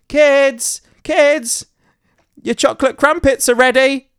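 high, loud fake-dad call; robot doing my voice. Robot copying dad's voice calling the kids, high and loud. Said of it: "in my voice".

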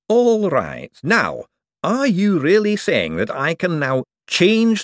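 high, slow, awed excitement; excited. Acted. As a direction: marvel at the power. Hubert grasps the power.

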